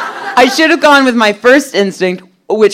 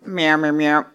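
Schwarzenegger cat; 4 semitones lower, 7 dB quieter than usual. Pretend. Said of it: "if Arnold Schwarzenegger turned into a cat".

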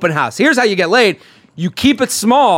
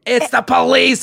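urgent alarm; 7 semitones higher than usual. Retold or imitated. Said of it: "on the phone just going".

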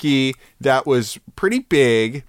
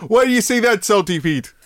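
pirate voice; 8 semitones higher, 3 dB louder, faster than usual. Acted. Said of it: "how's my pirate impression".

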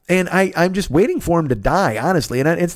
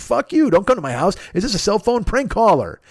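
high, indignant imitation; mock irritated refusal; 7 semitones higher than usual. Eric Stoltz refusing Joey's late call, mock irritated refusal. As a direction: act out an annoyed man refusing a caller.

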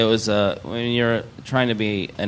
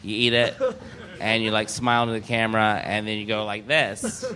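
put-on casting agent in a light Russian accent; bossy instructions, Russian accent. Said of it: "That's a Russian accent".

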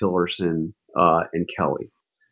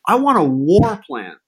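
slow, higher mock Trump demand; imitating Trump; 7 semitones higher, 4 dB louder than usual. Retelling Trump demanding a war plan, slow mock bark. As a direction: play Trump demanding it like a spoiled boss. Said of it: "He says".

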